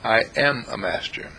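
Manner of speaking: firm affirmation; stress on am. Shown as a demonstration. Preacher leading the affirmation, stress on am. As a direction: lean on am in I am a master. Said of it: "What did we say when we started out".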